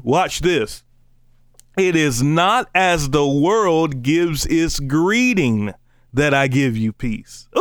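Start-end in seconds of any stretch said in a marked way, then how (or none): 1.8-7.5 very slow, drawn-out Bible reading; preacher reciting scripture with swelling emphasis. Acted. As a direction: linger on each phrase of the verse. Reads scripture aloud.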